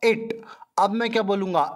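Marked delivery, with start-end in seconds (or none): 0.1-0.3 It with a short clipped i; short i sound. Shown as a demonstration. Teacher demonstrating the short i in It. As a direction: say It with a quick short i. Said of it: "पहले मैंने क्या बोला".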